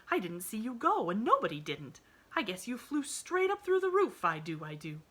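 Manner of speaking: lightly voiced homespun maid; fussing, chattering servant girl; country housemaid. A narrator's reading. Nancy voiced in story.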